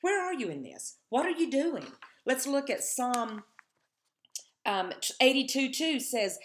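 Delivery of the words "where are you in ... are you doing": crying out. Retold or imitated. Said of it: "he's crying out to God".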